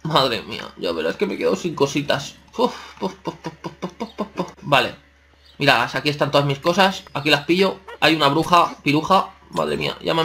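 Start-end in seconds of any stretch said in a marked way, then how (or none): 2.6-4.5 string of short, higher-pitched puffs; quick little puffs, softly popped out; repeated puffs. Real, not acted. Player fearing the lost items are gone, anxious puffing.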